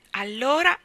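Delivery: put-on high, loud, rising child's voice; cheered up. A narrator's reading. Davy relieved at being forgiven, cheered up. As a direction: brighten up and lift the word happily. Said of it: "si rallegrò Davy".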